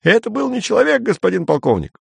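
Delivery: very high eager report; perked-up soldier. Acted. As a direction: report with new courage. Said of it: "приободрившийся Терман".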